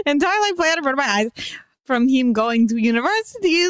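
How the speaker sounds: hurried mock Russian accent; bad Russian accent. Reader pushing on through the confession, bad Russian accent. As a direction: rush through in badly faked Russian. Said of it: "to the end of the story with this accent".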